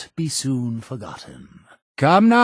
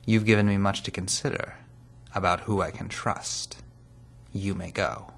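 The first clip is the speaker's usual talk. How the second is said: quicker, more even phrasing; brisk delivery; 2 semitones lower than usual. Acted. Leader dismissing an informant, brisk delivery. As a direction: move briskly through the dismissal.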